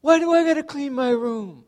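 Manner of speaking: put-on high, loud whining kid protest; whiny child. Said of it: "That's how kids reply".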